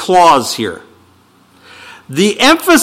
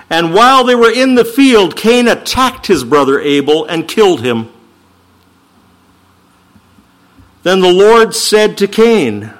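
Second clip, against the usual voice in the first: measured, solemn Bible reading; solemn scripture reading from the pulpit. Acted. Reads Genesis passage aloud.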